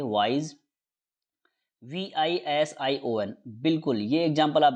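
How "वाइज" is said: वाइज said with a z at the end; shown pronunciation. Shown as a demonstration. Teacher showing students the word, z ending in वाइज. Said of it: "हम इसको जैसे उच्चारण करेंगे".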